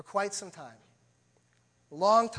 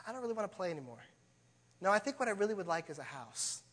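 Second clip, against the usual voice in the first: put-on indifferent boy; 7 dB quieter, faster than usual. Selfish boy voiced in story.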